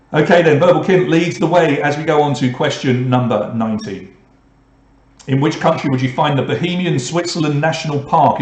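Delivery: upbeat quiz-master question reading; quiz host read. Acted. Quiz host reading the question to the players, upbeat announcer.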